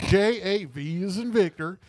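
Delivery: white people voice. Retold or imitated. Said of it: "my white people voice".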